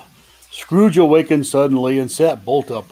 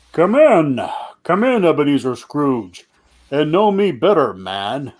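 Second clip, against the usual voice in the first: jolly giant ghost. Acted. Ghost of Christmas Present welcomes Scrooge, booming. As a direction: greet him like a hearty giant. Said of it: "I am the ghost of Christmas present".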